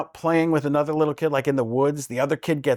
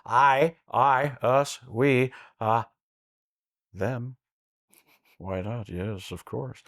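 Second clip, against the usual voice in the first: Jeff Goldblum impression; 3 semitones lower, much slower than usual. Shown as a demonstration. Doing Jeff Goldblum for the hosts, low and halting. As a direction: pause between words, hushed. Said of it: "it's Jeff Goldblum".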